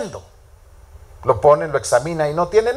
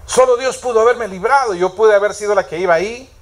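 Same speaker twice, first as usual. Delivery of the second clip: the same thought said again, higher and fuller; rising grateful realization; 3 semitones higher than usual. Retold or imitated. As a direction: let the gratitude swell on the repeat. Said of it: "ella pensó".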